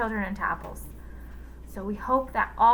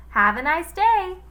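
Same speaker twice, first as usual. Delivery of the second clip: put-on high kid voice; sing-song child goodbye; girl's voice; 9 semitones higher, 7 dB louder than usual. A narrator's reading. Villain faking a girl's goodbye, high. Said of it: "said Kathy's voice".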